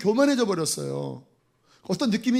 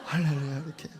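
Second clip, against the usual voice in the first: laughing demo; 3 semitones lower, 6 dB quieter than usual. Shown as a demonstration. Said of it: "은혜 받은 얼굴은요".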